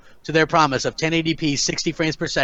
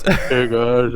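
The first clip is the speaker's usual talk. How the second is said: Drummer impression; 2 semitones lower than usual. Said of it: the speaker was doing a drummer's voice.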